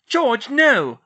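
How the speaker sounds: loud, urgent cry; alarmed shout. A narrator's reading. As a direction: shout to stop him. Hermione stops George throttling Dobby.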